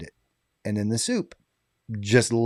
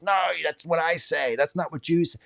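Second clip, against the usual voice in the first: mock upset; 6 semitones higher, 4 dB quieter than usual. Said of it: "he gets really upset".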